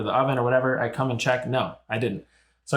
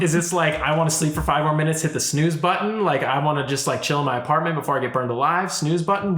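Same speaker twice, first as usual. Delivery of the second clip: higher-pitched, mocking incredulous question; 4 semitones higher than usual. Resident to fireman about silencing alarm, incredulous. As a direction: question it as if absurd.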